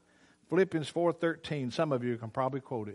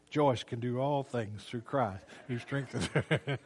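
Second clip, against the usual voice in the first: laughing tease; slower than usual. Retold or imitated. Teasing wife while changing diaper.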